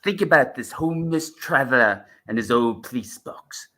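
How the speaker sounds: lightly voiced McCoy Doctor; Seventh Doctor impression. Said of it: "So that's my McCoy one".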